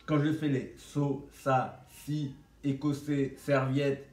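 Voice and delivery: 'so, sa, si, écossais, serviette' said slowly with a hissing, lisped s; each 'si' and 'serviette' with a slushy, whistling s; whistled s. Shown as a demonstration. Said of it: "les S, je les siffle un peu".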